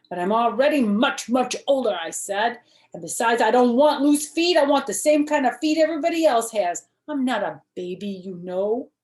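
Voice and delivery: put-on high, loud, insistent little girl protesting; a kindergartner stamping her foot in words; small girl loudly insisting to her mother.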